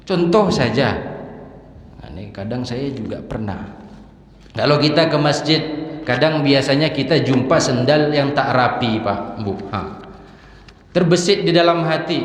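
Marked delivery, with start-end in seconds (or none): 4.6-9.0 high, loud, impassioned preaching; fervent pulpit preaching; preaching at full force. Acted. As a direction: drive the point home to the congregation. Preacher raises voice again.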